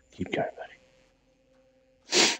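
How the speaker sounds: very slow whisper, every word stretched; drawn-out whisper. Real, not acted. Player coaxes his character on, stretched slow whisper. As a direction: coax him along, dragging it out.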